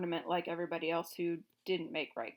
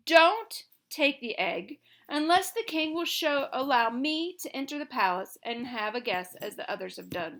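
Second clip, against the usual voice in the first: bargaining hen; 4 semitones higher, 7 dB louder than usual. A narrator's reading. Billina bargaining with the king for Dorothy. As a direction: lay down terms.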